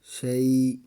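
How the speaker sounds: clipped pausal شی with no ن sound; pausal stop reading. Shown as a demonstration. Teacher shows how to stop on the word. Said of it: "آگے وقف".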